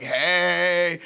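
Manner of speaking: loud hello at ordinary pitch; hearty welcome. Retold or imitated. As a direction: hail a familiar buddy loudly. Regulars greet Dan.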